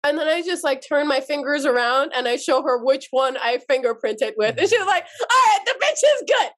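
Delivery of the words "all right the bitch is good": amused approval. Retold or imitated. Cousin approves, laughing.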